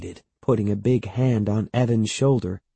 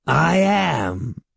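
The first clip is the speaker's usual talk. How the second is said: raised, drawn-out proclamation; declaring; 6 semitones higher than usual. A narrator's reading. Great-aunt owning up to being a witch, declaring. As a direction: own up with relish. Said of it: "Catherine declared".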